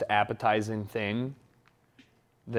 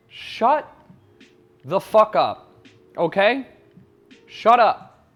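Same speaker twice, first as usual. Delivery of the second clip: loud mock outburst at nitpickers, higher; mock angry; 7 semitones higher, 6 dB louder, slower than usual. Telling pedantic viewers off in a loud mock rant. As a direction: snap at the pedants, half joking.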